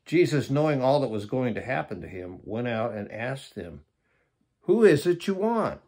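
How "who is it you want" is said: raised, ringing challenge in higher pitch; commanding question. Acted. Jesus asks the soldiers who they seek, commanding question. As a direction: read it out as a loud, high demand.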